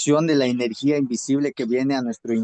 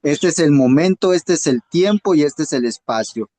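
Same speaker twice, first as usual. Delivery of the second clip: resolute declaration; 5 dB louder than usual. Retold or imitated. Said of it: "Entonces tú agarras y dices".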